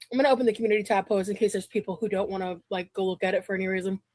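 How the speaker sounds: breathless, panting a little; out of breath. Real, not acted. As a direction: talk while catching your breath. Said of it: "Why is she out of breath?".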